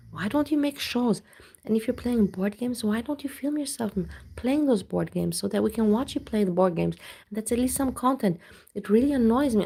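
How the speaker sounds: exasperated rant. Real, not acted. Ranting at streamer.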